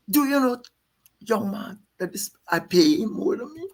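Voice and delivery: lightly voiced elder statesman lecturing a young man; imitating Burnham. Burnham quoted telling young man.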